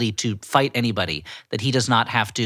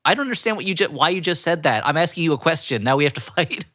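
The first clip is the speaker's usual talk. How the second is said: disconnected delivery; 2 semitones higher than usual. Retold or imitated. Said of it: "He delivers it like".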